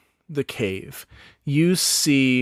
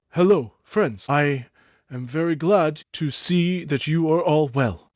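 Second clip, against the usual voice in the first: elder goblin Thook; 3 semitones higher than usual. Acted. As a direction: greet the young ones as a gentle goblin elder.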